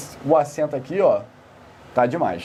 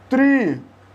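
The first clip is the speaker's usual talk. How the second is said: triunfo split as tri... un... fo, high pitch; high, spaced-out "tri... un... fo"; syllable by syllable; 7 semitones higher, 3 dB louder than usual. Shown as a demonstration. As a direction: separate "triunfo" into three syllables with long pauses. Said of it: "Quando você pega a palavra".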